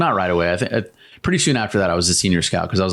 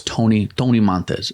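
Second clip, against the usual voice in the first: slipping into a light Hispanic accent; name said with a Hispanic accent. Real, not acted. Veteran introducing his Hispanic crewmate to the host, light Hispanic accent. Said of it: "why I did that accent".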